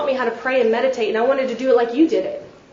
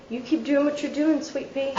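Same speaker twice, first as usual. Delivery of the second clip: soft, doting grandfatherly tone, trailing quiet; imagining the loving answer she hoped for; expected sweet reply; 2 semitones higher, 6 dB quieter than usual. Retold or imitated. Speaker imagines grandfather praising her, soft and doting. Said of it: "I'm fully expecting".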